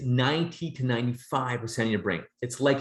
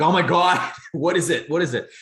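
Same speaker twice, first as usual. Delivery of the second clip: louder, higher panicked cry, retold; freaking out; 5 semitones higher, 6 dB louder than usual. Coach retelling a scare in the dark woods, freaking out. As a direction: re-enact a startled freak-out. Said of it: "and I'm freaking out".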